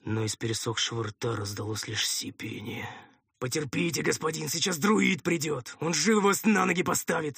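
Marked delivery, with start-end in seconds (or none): 3.4-7.4 higher, busy patter of reassurance; eager servant's running chatter; droning helper voice. A narrator's reading. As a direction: babble comfort to a wounded master. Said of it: "забубнил голос над ухом".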